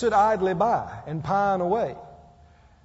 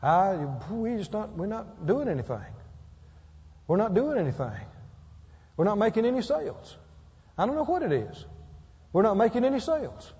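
whiny mock gloom, lightly voiced; mock complaining salesman; 3 dB quieter, faster than usual. Preacher mimics a moping business owner, mock whiny gloom. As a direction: sigh it out like a helpless victim. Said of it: "if you sit around and go".

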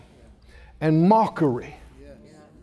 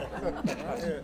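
chuckle; 3 semitones lower, 14 dB quieter than usual. Real, not acted. Laughs at his own sarcasm.

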